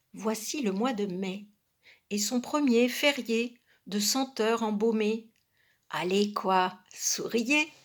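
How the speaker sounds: lilting, rhythmic verse reading; poem recitation. Acted. Reader urging listeners to smile, poem recitation. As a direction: recite it phrase by phrase, with pauses.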